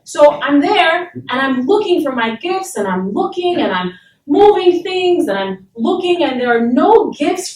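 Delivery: mounting breathless-style recounting of excitement; retold excitement. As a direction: relive the eager childhood rush as you tell it. Reliving excited Christmas morning search.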